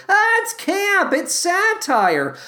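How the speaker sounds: high, mocking imitation; mock dismissive. Mimics people defending questionable material.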